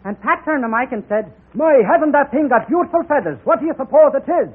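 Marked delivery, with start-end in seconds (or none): 1.5-4.5 Irish character voice. Acted. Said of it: "a little story about Pat and Mike".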